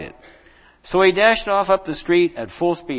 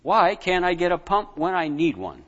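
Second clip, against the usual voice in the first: muttering; 5 semitones higher than usual. Acted. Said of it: "Aaron muttered to himself".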